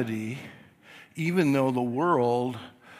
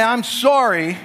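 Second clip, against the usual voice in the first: parent prompting apology; 8 semitones higher, 7 dB louder, slower than usual. Retold or imitated. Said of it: "and you say".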